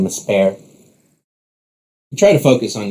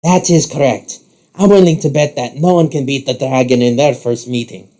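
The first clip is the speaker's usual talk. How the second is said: higher, theatrical showman voice; Rook, showy challenger; 3 semitones higher than usual. Acted. Rook challenges the rival to bet, showy boast. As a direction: boast it grandly.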